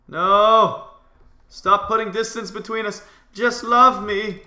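high, loud melodramatic wail; hammed-up desperate plea; mock pleading. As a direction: beg like a spurned lover, loudly. Mock plea to fleeing opponent.

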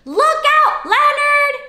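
high, loud call to model it; loud warning call. Shown as a demonstration. Host modelling the warning for kids to repeat, loud.

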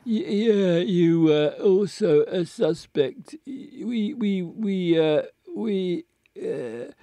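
put-on slurring, stammering drunk man; halting drunk detective voice. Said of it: "he's still doing the drunk voice".

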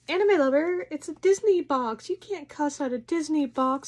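mock viewer voice. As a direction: play a nagging viewer, half mocking. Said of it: "I know what you're thinking".

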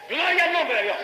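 high-pitched burst of praise; exclaimed praise. Real, not acted. Preacher breaks from his story to glorify God, exclaimed praise. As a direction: cry it out high, falling at the end.

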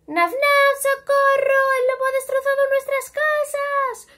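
high, loud panicked pleading; panicked cry for help. A narrator's reading. The pigs beg Naf Naf for help, panicked and high.

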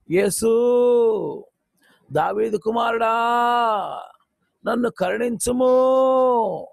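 loud slow plea for mercy; crying out. Acted. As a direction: call out to the passing master. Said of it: "అని కేకలేస్తున్నాడు". (గట్టిగా కేకలు)

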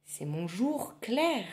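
slow, weighty reveal; lightly voiced witch; slow witch answer. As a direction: savour the answer.

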